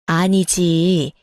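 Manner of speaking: a hint of a stern mother-in-law dragging it out; mother-in-law slowly cutting in; mother-in-law refusing. Mother-in-law voiced on phone.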